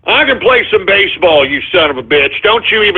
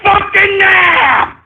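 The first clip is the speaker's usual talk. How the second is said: angry outburst; 3 semitones higher than usual. Acted. Host snaps at callers over a clip.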